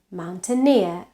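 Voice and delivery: "mountaineer" stressed on -eer; stress on last syllable. Shown as a demonstration. Teacher showing suffix stress to learners, "mountaineer" stressed on -eer. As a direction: put the weight on the -eer of "mountaineer". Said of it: "has the stress on the suffix".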